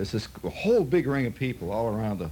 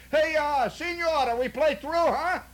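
much higher, hammed-up Mexican accent calling out; imitating Trevino's Mexican accent; slower than usual. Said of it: "Trevino hollers something like".

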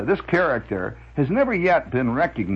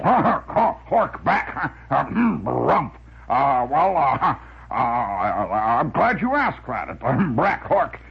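windbag major voice; much slower than usual. Retold or imitated. Windbag voice on the phone.

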